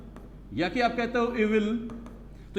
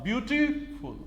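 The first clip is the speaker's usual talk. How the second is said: ब्यूटीफुल broken by a pause after ब्यूटी; pause between syllables; 4 semitones higher, slower than usual. Shown as a demonstration. Teacher showing where the rhythm breaks, ब्यूटीफुल split before फुल. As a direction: stop briefly after ब्यूटी, then finish ब्यूटीफुल with फुल. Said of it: "ब्यूटी के पास आप second का fraction वाला हिस्सा आप रुकते हो".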